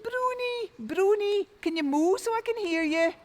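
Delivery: high, loud tired call; crying out. A narrator's reading. Tom rests and calls the cow, shouting high. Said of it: "he cried out".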